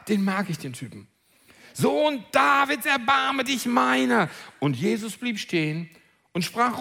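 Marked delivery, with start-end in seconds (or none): 1.8-4.3 crying out. Acted. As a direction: call out slowly, pleading. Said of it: "Er aber schrie umso mehr".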